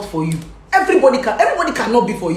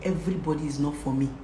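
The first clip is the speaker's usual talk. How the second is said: recited motto; 5 semitones lower, 10 dB quieter than usual. Shown as a demonstration. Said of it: "recite this to yourself".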